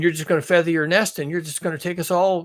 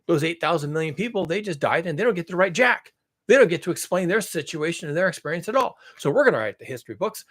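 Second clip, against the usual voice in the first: smug imitation; 3 semitones higher than usual. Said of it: "then you're gonna say".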